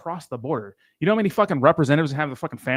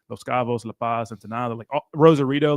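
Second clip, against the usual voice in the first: Spanish accent; 3 semitones lower than usual. Shown as a demonstration. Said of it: "Why you change your accent".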